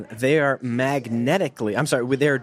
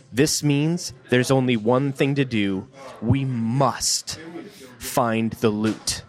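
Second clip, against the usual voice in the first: dramatic reading; slower than usual. Retold or imitated. Dramatic reading of Frank's line.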